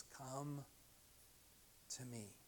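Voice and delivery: soft, unhurried call with a pause; gentle invitation. Acted. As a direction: offer it quietly and tenderly. Jesus welcoming the weary.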